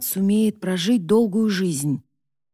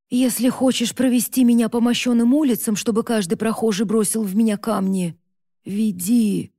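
anguished outcry; 4 semitones higher, 4 dB louder than usual. Acted. Condemned mother defies son.

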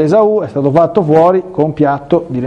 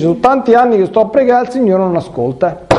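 mock lament; 6 semitones higher than usual. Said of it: "se lo dice".

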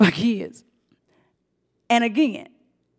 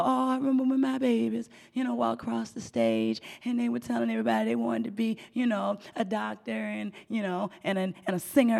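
melting; 8 dB quieter than usual. Retold or imitated. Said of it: "I'm going".

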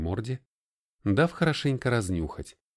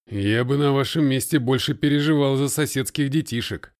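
mock warning; 4 semitones higher, 6 dB louder than usual. A narrator's reading. Russian grim joke.

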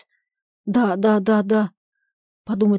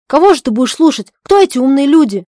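indignant; 4 semitones higher, 8 dB louder than usual. Acted. Zhadov indignant.

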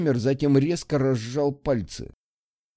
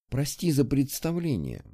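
soft, warmer apology; 4 dB quieter than usual. Acted. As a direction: gently apologize. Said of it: "Тон был более тёплым".

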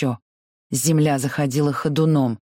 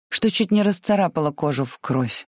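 plain reading voice

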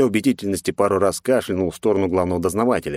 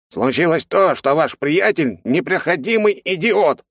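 higher and slower, barking the insult; angry bark; 10 semitones higher, slower than usual. Acted. Curator scolding the student in front of his friend, angry bark. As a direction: spit out idiot in fury. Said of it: "рявкнул куратор".

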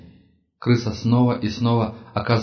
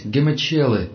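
higher panicked cry; panicked shout; 4 semitones higher than usual. Acted. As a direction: scream the word in terror. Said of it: "Подгоняемый пронзительными выкриками".

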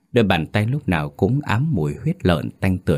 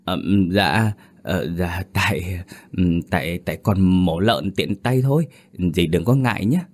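stammering. Acted. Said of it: "Lâm đỏ mặt ấp úng".

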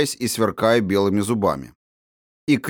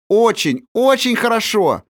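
high, louder joyful cry; delighted praise; 13 semitones higher, 5 dB louder than usual. A narrator's reading. Princess cheering the strongwoman, high and louder. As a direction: clap and cheer. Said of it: "захлопала в ладоши княжна Аля".

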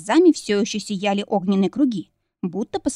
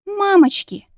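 much higher, louder shriek of fright; frightened squeal; 11 semitones higher, 5 dB louder, slower than usual. A narrator's reading. Jenny squeals in fright at the demon's words, shrill squeal. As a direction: squeal out in sudden terror. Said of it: "взвизгнула Дженни".

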